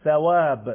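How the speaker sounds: "ثواب" with air pushed between the teeth on ث; pressed tha. Shown as a demonstration. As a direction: say "ثواب" with a forceful English "th" as in "think".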